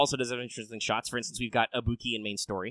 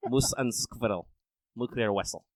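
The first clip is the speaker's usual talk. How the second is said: Russian accent; 4 dB quieter than usual. Shown as a demonstration. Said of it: "I can only do Russian accent".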